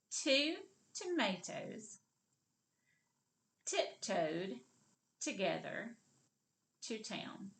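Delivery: "Two tomatoes", "tiptoed", "together", "to town" with pauses between; broken into pieces. Shown as a demonstration. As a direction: model it piece by piece for repeating. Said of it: "Now let's put it all together".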